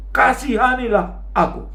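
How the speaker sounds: high-pitched retold plea; Bartimeus berteriak kencang. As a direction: cry out insistently, imitating the beggar. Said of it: "dia malah berteriak lebih kencang". (seruan memohon bernada tinggi menirukan Bartimeus)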